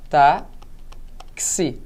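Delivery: long gap inside táxi; syllable by syllable. Shown as a demonstration.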